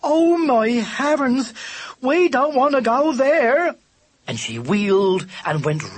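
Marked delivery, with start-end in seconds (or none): 0.0-3.7 high, loud, slow dismay; aghast and pleading; horrified. Acted. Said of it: "cried Katy in horror".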